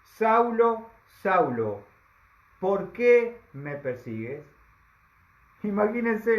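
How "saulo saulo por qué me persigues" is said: voice from heaven. Acted. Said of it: "oyó una voz que le decía".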